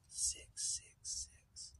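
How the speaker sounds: slow, drawn-out eerie whisper; spooky whisper. Acted. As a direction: breathe it like an ominous secret. Revealing the devil's number.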